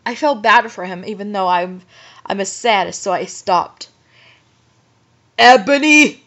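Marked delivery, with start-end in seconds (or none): 5.4-6.2 loud, theatrical villain call; yelled name. A narrator's reading. Voldemort summoning Ebony, yelling. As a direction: call it out commandingly. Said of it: "he yelled".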